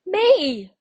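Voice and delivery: high, loud, stubborn little caterpillar; childlike high voice refusing to change. A narrator's reading. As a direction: dig in your heels, small and insistent. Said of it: "said little caterpillar".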